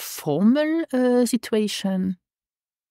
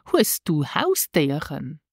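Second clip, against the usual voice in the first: slow model phrase; 2 semitones lower, slower than usual. Shown as a demonstration. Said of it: "This is".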